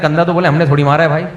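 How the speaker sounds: put-on quoting the boys through a chuckle; a joking quote that breaks into laughter; laughing retelling. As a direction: tell the joke's punchline while laughing. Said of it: "اس بچے کہہ رہے ہیں".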